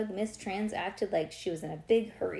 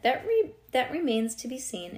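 raised, lightly mysterious line; 5 semitones higher, 5 dB louder than usual. A narrator's reading. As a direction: read it with a touch of mystery, pitched up. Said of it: "in a very mysterious voice".

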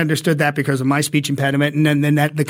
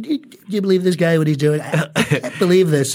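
fast, incredulous Trump voice; Trump impression. Shown as a demonstration. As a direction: do Trump in disbelief. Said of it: "four different Trump voices that I have to do".

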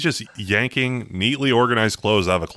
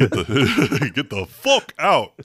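high mock yell through laughter; hammed-up eviction, giggling; laughing mock yell; 6 semitones higher, 3 dB louder, slower than usual. Mocking Ronnie's blowout.

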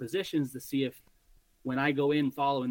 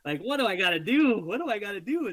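louder, higher exasperated outburst; frustrated; 6 semitones higher, 4 dB louder than usual. Retold or imitated. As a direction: blurt it out, fed up. Frustrated that the deer won't drop.

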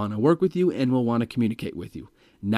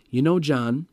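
slowed down; slower than usual. Shown as a demonstration. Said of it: "you slow yourself down".

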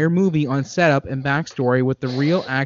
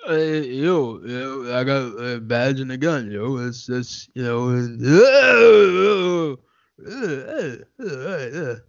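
tough cop voice; 2 semitones lower, slower than usual. Acted. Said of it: "give us a little hintsky".

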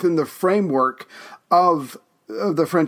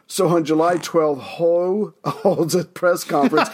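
second try, laughing through it; slow down and get it right, chuckling; retry with a laugh; slower than usual. Real, not acted. Host retrying a flubbed line, laughing. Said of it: "let me try that again".

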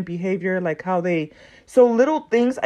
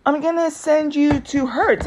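higher, slow, sweet agent voice; a lightly voiced cheerful agent; super friendly agent; 6 semitones higher than usual. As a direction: keep the sugary phone voice. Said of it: "super friendly".

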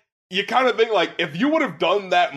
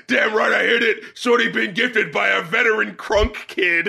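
imitating the rapper; 2 semitones higher than usual. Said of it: "the delivery of".

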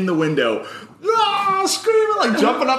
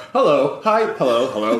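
eager greetings. Retold or imitated. Greeting whole family.

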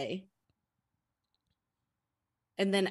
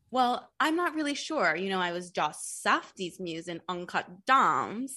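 light impression of a viral interview; imitating an interviewee. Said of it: "And she goes".

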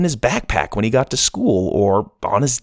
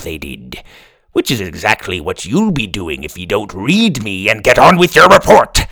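pirate voice; 2 semitones lower than usual. Acted.

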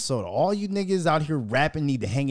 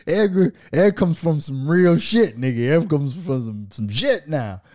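1 mock cousin brag; 5 dB louder, slower than usual. Imitating cousin boasting.

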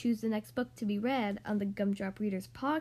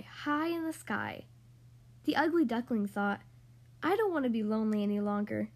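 lively, sing-song storybook reading; reading to children. Acted. Podcast host reading The Ugly Duckling to young kids, animated storytelling. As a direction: read it like a bedtime picture book for little kids. Reads picture book to kids.

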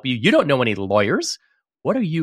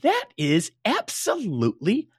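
much higher, louder, stretched "outraged"; 5 dB louder than usual. Real, not acted. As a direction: burst out in outrage. Outraged about the pressure.

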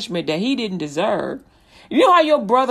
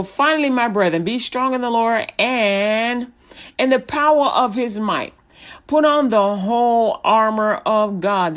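scripture reading. Acted. Pastor reading Ephesians to radio listeners, solemn. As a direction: read it out like a preacher with weight.

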